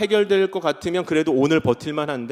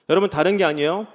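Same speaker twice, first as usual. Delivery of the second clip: ordinary delivery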